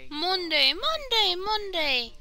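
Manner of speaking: slow booming announcer hype; monster truck ad. Pretend. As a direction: hype it like a radio ad.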